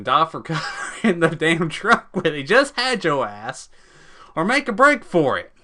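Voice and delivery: laughing through the words; cracking up while reading out options. Real, not acted. Laughing at absurd choice.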